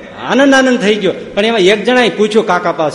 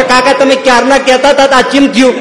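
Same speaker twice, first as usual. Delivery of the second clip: mock accusing passenger; 4 semitones higher than usual. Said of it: "કોણ મને પૂછવાનું હતું કે".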